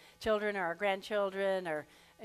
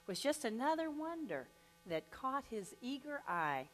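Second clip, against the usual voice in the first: lightly lilting storytelling reading; poem recital. Acted. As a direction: recite the ditty like a gentle story. Reads a poem aloud.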